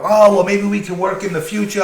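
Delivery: butter him up like a nervous boss; fawning boss. Retold or imitated. Boss voiced in retold story.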